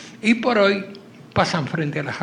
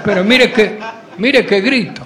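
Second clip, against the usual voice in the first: put-on higher and louder kid's threat; 3 semitones higher, 6 dB louder than usual. Boy warns the lover he will scream, loud and high. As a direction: shout the warning up high like a brat.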